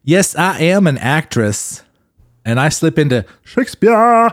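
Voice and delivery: a hammed-up stage actor showing off; Matt. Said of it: "Here's my Matt impersonation".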